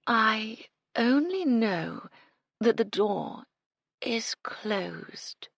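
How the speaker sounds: very slow, fading to a whisper; sway and drone it out; mournful monotone. Acted. Madeline swaying, slow whispered monotone. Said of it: "mournful monotone".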